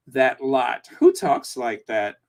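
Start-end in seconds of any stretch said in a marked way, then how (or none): 0.1-0.9 slow, posh English accent; slightly posh English phrasing; hybrid English accent. Shown as a demonstration. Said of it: "hybrid English accent".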